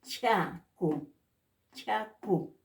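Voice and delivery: CHACU with a puff of air on the ch; aspirated ch. Shown as a demonstration. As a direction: breathe out through the ch of CHACU.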